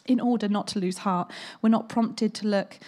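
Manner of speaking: speaking through real tears; crying. Real, not acted. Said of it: "I just can't stop crying".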